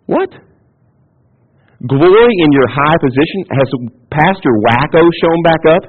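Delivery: baffled protest; incredulous listener. Acted. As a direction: question it as if it were absurd. Voices baffled hearers of James's command.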